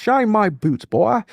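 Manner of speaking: high-pitched Southern officer voice; mock Southern accent for a haughty officer. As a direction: order it in a put-on Southern accent. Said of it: "I gave him a Southern accent".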